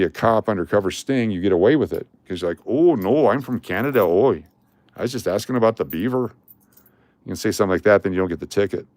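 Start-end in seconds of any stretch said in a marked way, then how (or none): 2.7-6.3 lightly put-on Canadian accent, lilting. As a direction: play a polite Canadian explaining himself, mild accent. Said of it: "It's my Canadian accent".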